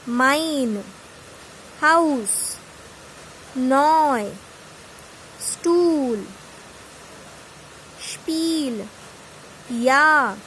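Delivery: isolated German words, drawn out with pauses between; pronunciation model. Shown as a demonstration. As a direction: say each word separately and lengthen its vowel. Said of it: "with this we pronounce it as".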